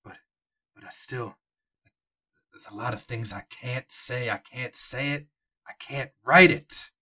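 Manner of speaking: lightly voiced old park docent, hesitant. Old docent telling the players what he cannot say, hesitant. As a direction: stammer like a guide who cannot say what he knows. GM voicing Jonah.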